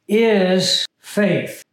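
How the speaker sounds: weighty "Is", falling close on "faith"; emphatic IS. Shown as a demonstration. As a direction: lean on "Is" before "faith". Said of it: "the emphasis here is the word is".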